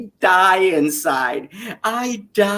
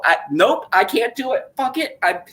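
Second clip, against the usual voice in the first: higher, laughing exasperation; mock despair; 6 semitones higher than usual. Fan quitting mid-episode, laughing in mock despair. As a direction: give up through laughter. Giving up on the show.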